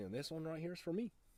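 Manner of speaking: put-on Minnesota accent. Retelling what a man from minnesota said on a boat handing out poles: minnesota accent. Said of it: "he had a little bit of an accent because he was from Minnesota".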